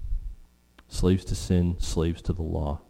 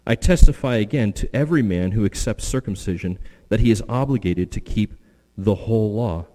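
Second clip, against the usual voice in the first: loud, raised scripture reading with urgency; emphatic reading of Paul; 4 dB louder than usual. Acted. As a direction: proclaim Paul's warning to the congregation. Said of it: "Paul says".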